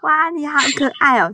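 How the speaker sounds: put-on high, sweet baby-talk voice; 娃娃音. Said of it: "你现在连讲话都是娃娃音". (高音甜甜的娃娃音)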